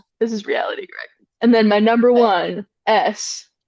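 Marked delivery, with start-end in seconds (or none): 0.2-1.1 mock contemptuous, hushed, sarcastic whisper. Quoting a line from a movie, imitating heavy sarcasm. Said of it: "With all of the sarcasm that tiny little body can muster".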